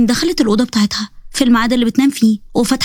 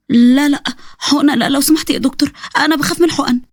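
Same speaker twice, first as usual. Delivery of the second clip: scared of needles; 3 semitones higher than usual. Acted. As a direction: beg the doctor off the needle. Patient scared of injection.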